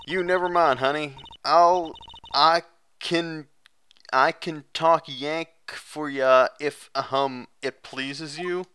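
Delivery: lightly drawled country gal; friendly Southern woman. Acted. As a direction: invite questions in a Southern drawl.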